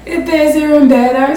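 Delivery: chuckling through the words; pleased, giggly repeat; laughing. Real, not acted. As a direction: laugh as you repeat the good news.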